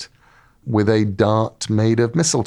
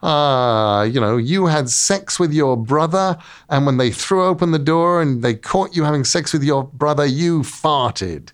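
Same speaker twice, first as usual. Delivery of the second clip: taunting Loki; 4 semitones higher than usual. Retold or imitated. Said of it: "And he goes".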